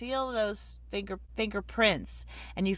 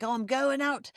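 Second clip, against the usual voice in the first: lightly attempted Irish accent, pitched higher; 4 semitones higher than usual. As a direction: have a half-hearted go at an Irish accent. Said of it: "Well, I can't do her accent".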